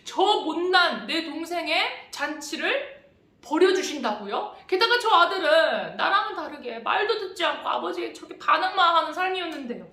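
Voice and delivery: complaining. Acted. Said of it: "불평하고 화를 내기".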